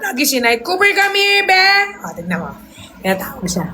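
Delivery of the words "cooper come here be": calling the dog. Real, not acted. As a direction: draw the dog over with a long high call. (malambing na pagtawag sa aso)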